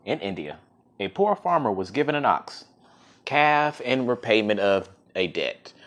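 measured folk-tale reading; story narration. A narrator's reading. Storyteller reading of the poor farmer and his ox, story narration. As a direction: read it out as a tale, with weight on key words.

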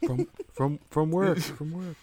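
hushed feeding of an excuse; quiet prompting. Acted. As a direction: whisper the lie to him.

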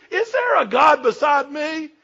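slow, loud, high proclamation; God's voice thundering the question; booming God voice. Acted. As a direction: boom it out as God challenging. Preacher voicing God, shouting.

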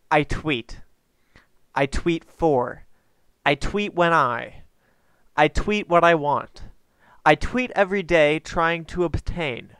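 measured, deliberate poem recital; poem reading. Acted. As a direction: read each line like a solemn verse. Reads own short poem.

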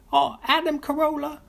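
very high falsetto Big Mama voice; high, loud falsetto character voice; Big Mama impression. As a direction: squeal his name like a sassy mama. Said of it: "let me do an impression of his character, Big Mama".

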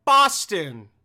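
loud, stunned echo of her mistake; loud, appalled one-word echo; incredulous repeat. Acted. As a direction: throw it out loudly in disbelief.

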